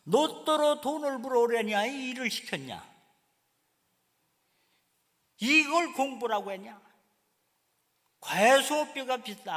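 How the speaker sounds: a mother yelling over a failing grade; angry scolding mother. Retold or imitated. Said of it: "막 욕을 하면서".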